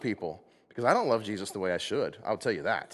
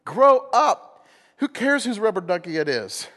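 loud rebuke; 8 semitones higher, 6 dB louder, slower than usual. Real, not acted. Preacher rebuking congregation.

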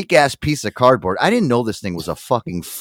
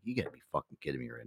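muttered disbelief; 9 semitones lower, 19 dB quieter, faster than usual. Retold or imitated. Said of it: "I'm like".

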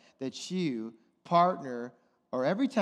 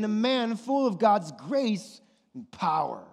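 scripture reading; 3 semitones higher than usual. Shown as a demonstration. Preacher reading the verse to the congregation, slow and proclaiming. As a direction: read the verse slowly, proclaiming. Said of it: "Now Stephen".

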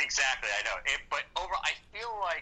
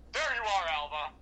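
mock excited; 6 semitones higher than usual. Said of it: "jumps on the table".

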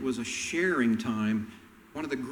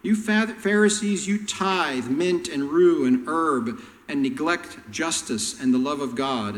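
going off; 4 dB louder than usual. Retold or imitated. Jesus going off on the petty Pharisees, loud and fierce. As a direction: tear into them. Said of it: "He just goes off on them".

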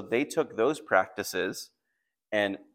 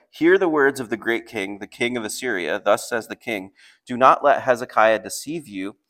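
louder, emphatic scripture reading; loud proclamation; 7 dB louder than usual. Acted. Envoy calling to the people on the wall, raised voice. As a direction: call it out like a royal herald. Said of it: "called out with a loud voice".

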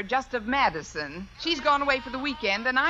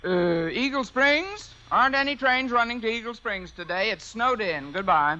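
disguised voice. Acted. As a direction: play the drowsy clerk. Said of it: "disguise my voice".

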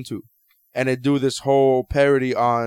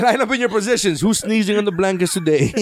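laughing officer voice; 5 semitones higher than usual. Acted. Acting drill officer, laughing.

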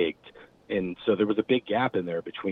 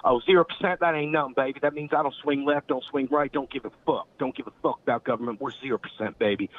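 put-on Georgia Southern accent; 6 semitones higher than usual. Bandmate explaining his zero percent motto, imitated Georgia Southern accent. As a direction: do a higher-voiced, cocky Georgia good old boy. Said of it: "this Georgia original Southern badass accent".

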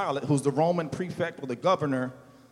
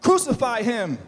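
higher, louder chant of the mob; crowd shouting; 5 semitones higher, 6 dB louder than usual. A narrator's reading. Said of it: "but they kept shouting".

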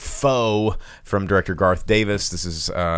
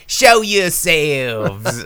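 dramatic line; 7 semitones higher, 5 dB louder, much slower than usual. Retold or imitated. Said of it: "And then he goes".

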